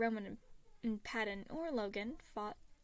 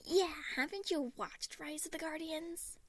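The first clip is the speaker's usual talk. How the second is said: higher, mock shocked question; fake shock; 6 semitones higher than usual. A narrator's reading. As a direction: ham up the disbelief. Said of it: "Remus asked in fake shock".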